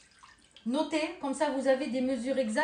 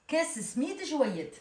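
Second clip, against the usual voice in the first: « Kes smid joyet » très lent, en appuyant sur « Kes »; détacher lentement « Kes smid joyet » à la tunisienne; accent tunisien lent; much slower than usual. Shown as a demonstration. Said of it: "On sent l'accent tunisien". (« Kes smid joyet » lent, accent tunisien)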